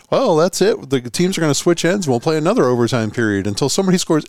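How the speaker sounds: a hint of an announcer addressing the crowd; rink announcer. Announcer telling fans teams will switch ends, lightly imitated announcer call. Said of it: "Your announcer said".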